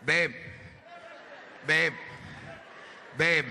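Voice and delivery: slurred, repeated calls of babe; drunk calling out. Acted. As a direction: call her like a drunk.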